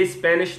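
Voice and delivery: "Spanish" said as "Espanish"; E before Spanish. Shown as a demonstration. Teacher rejecting the error, "Spanish" with E in front. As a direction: add a wrong E to "Spanish". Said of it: "Spanish não".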